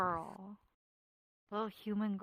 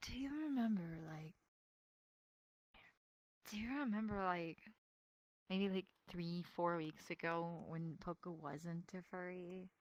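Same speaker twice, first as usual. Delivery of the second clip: hushed secret; 8 dB quieter than usual. Real, not acted. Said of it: "I'll whisper it to you".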